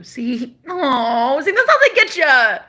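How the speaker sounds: bursting into a high, loud laugh through the words; giddy laughing outburst. Real, not acted. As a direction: laugh it out, caught off guard. Laughing at a sign from ex.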